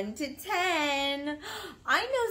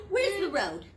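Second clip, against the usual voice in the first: mock surprise; 4 semitones higher than usual. Playful mock search with child.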